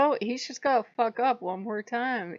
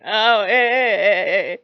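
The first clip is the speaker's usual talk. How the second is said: calling out; 12 dB louder, slower than usual. Real, not acted. Owner shouting at the dog mid-recording, loud call.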